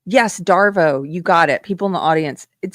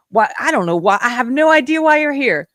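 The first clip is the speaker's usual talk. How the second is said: higher-pitched sarcastic cluelessness; mock bafflement; 5 semitones higher than usual. Host answering the congresswoman's question, mock baffled. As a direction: play dumb, pitch lifting on the last phrase. Feigned ignorance after sarcastic guesses.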